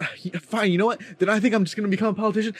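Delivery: high, stammering, whiny mock student; flustered student impression. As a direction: play the rattled classmate groping for words, pitched high. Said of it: "He's like".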